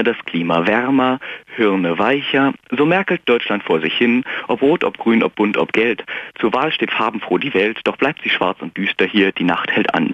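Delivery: measured, rhythmic rhyming recitation; poem recital. Acted. Caller reciting his political poem on the radio, rhythmic. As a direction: read the verses out with a steady poetic beat.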